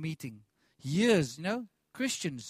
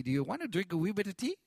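imitating Irish accent; faster than usual. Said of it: "all got these beautiful accents".

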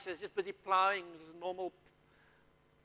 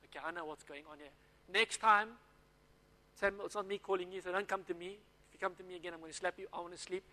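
soft, quick, half-asleep grumbling; an old priest fed up at being woken; sleepy annoyed mutter; 7 dB quieter, faster than usual. Acted. Eli, woken a third time, tells Samuel off in a sleepy grumble.

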